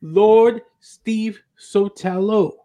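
slow, solemn grave inscription; grand pronouncement. Acted. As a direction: intone it with lordly gravity. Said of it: "it shall say".

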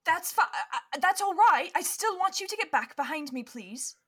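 calm them, then insist; reassuring but firm adult. Acted. Adult ordering the kids back behind her, firm. Game master voices protective adult.

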